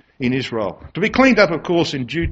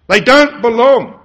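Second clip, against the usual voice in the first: slow emphatic declaration; 6 semitones higher, 6 dB louder than usual. Real, not acted. Preacher driving home excommunication.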